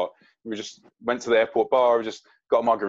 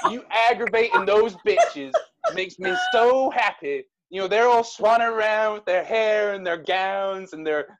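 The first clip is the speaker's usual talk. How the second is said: high, slow, emphatic adoration; loud gushing fan; 6 semitones higher, 4 dB louder than usual. Acted. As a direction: gush loudly, stretching out the key words. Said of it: "this very loud voice go".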